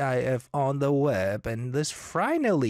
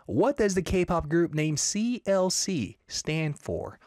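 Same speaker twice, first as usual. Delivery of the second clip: slow riddle read; slower than usual. Shown as a demonstration. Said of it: "today's K-pop riddle is".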